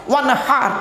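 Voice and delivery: "ওয়ানহার" with h from inside the throat; correct throaty h. Shown as a demonstration. Preacher translating the verse word by word, throaty h. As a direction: sound a throaty Arabic h in "ওয়ানহার". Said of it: "গলার ভেতর থেকে হে এটা উচ্চারণ করবে".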